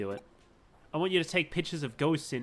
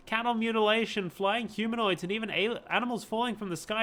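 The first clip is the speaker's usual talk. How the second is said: excited conspiracy rant; 5 semitones higher than usual. Acted.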